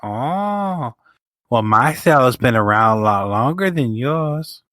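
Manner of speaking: slow mock one-upmanship; bickering wrestling cells. Co-host imagining WWE cells arguing over seniority, slow mock bragging. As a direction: stretch it into a petty mock brag. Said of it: "I could just see W W E".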